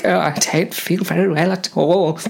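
sick crewman. Acted. Sick crewman voiced in story.

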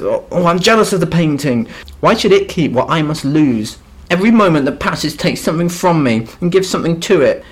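a hint of a whiny posh youth pleading; pouting rich boy, mildly overwrought; snotty rich boy. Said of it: "your snotty little rich boy accent".

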